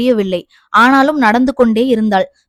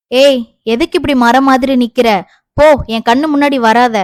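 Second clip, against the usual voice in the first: scolding; 4 dB louder than usual. Acted. Aunt scolds girl standing in way.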